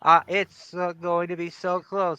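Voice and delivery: deadpan monotone, no melody at all. Acted. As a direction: drone it out like a bored robot. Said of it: "is this monotone voice annoying anybody?".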